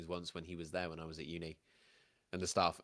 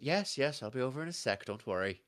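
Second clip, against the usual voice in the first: busy barmaid with an Irish lilt; Irish-accented hostess, juggling customers; 3 semitones higher than usual. Acted. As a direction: answer across the bar in an Irish accent. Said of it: "I don't do Irish".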